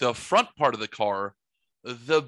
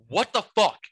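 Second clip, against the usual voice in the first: high, louder mock neighbor yelp; neighbors' yelp; 7 semitones higher, 5 dB louder than usual. Neighbors coming outside, yelping in surprise. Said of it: "were like".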